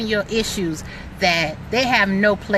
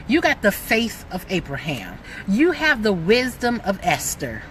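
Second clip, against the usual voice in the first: affirming; slower than usual. Pretend. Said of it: "look in the ... mirror and say".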